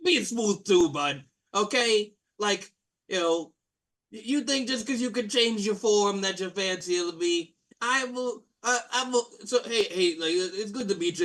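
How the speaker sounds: light brash jock voice; Blue Blairy. Acted. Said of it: "He's like".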